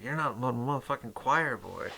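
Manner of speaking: mock pissed-off movie line, pitched a bit up; lightly imitated Arnold. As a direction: quote the angry hero with a light touch. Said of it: "he's pissed off".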